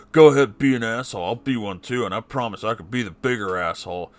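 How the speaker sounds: lightly voiced taunting dad, pushed out loud; father's taunt. Father taunting his child, a lightly mocking voice. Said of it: "Right up there with".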